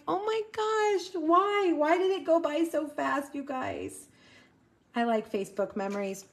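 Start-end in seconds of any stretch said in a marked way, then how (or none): 0.1-4.1 playful, pitched-up despair; mock wail. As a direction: wail it in a raised voice, sinking at the end. Mom's retold wistful reaction.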